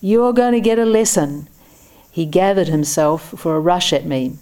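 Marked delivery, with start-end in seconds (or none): 0.0-1.5 high, menacing holler. A narrator's reading. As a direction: threaten him with a lesson. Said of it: "he hollered".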